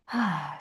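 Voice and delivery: quiet, settling exhale; soft sigh. Real, not acted. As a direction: let out a soft breath before guiding. Settling before a grounding exercise.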